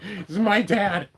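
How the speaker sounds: high, slow voice for the happy dog; high, drawn-out doggy voice proudly greeting dad; voicing the dog. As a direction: speak for the dog as if it's overjoyed. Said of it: "He's like".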